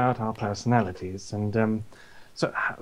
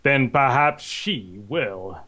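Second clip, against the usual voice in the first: Darth Vader parody; 3 semitones lower than usual. Acted. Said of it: "a James version of that".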